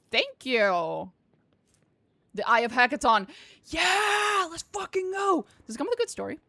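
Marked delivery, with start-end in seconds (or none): 3.7-5.4 high, loud whoop of delight; excited cheer. Real, not acted. Streamer cheering at the rifle drop, high and loud. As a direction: cheer it like a fresh loot drop.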